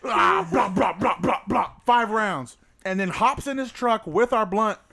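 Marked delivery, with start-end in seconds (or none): 0.0-2.6 laughing excitement. Real, not acted. Retelling gun firing, laughing.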